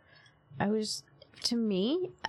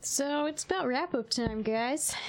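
disc jockey voice; 3 semitones higher than usual. Pretend. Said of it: "Using my jock voice, my disc jockey voice".

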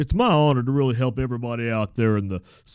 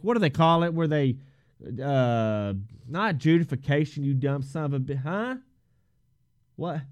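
much softer, off to the side; hushed aside; 10 dB quieter than usual. Acted. Host asking Hank for the term, in a hushed aside. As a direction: drop your voice to consult a helper.

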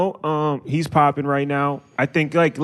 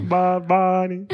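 put-on very slow, higher little old lady; grandma voice; 4 semitones higher, much slower than usual. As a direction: drag it out like an abuela. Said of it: "why do you sound like a grandma".

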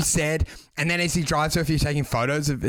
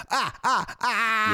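higher, repeated stuck "ah"; mock glitching noises; 5 semitones higher, much slower than usual. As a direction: stutter out "ah" like a jammed machine. Mimics people glitching when challenged.

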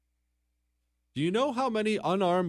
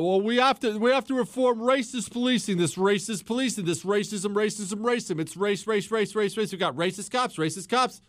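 mocking young lefty; 6 semitones higher than usual. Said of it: "young people have got".

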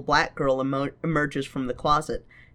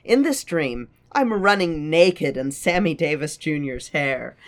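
acting out Lala's dream monologue; theatrical reading of a character; dramatic reading; 5 semitones higher, 3 dB louder than usual. Reads Lala's monologue aloud.

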